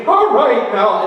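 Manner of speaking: imitated nervous pastor with a wavering voice; shaking voice. Host pastor addressing the crowd, imitated shaky voice. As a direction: mimic a pastor's trembling voice. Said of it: "his voice was shaking".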